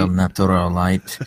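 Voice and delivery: lightly hammed Spanish accent on the beer name; mock Spanish. Jokey Spanish version of beer name.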